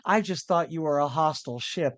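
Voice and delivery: lightly put-on Irish brogue; mock Irish, excuse-making; a hint of a bad Irish accent. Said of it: "bad Irish accent".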